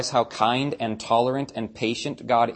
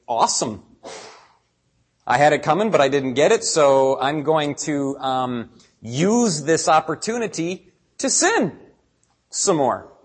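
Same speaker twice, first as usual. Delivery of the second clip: gleeful, louder smug quote; smug sinner; 3 semitones higher, 4 dB louder than usual. Retold or imitated. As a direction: gloat over the lucky break. Imitating sinner on probation.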